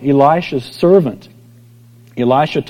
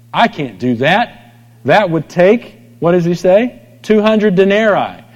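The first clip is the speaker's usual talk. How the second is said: alarmed disciples; 5 semitones higher, 4 dB louder than usual. Retold or imitated.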